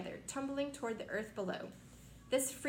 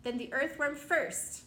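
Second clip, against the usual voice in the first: shouting; 3 semitones higher than usual. Acted. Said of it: "shouted the centipede".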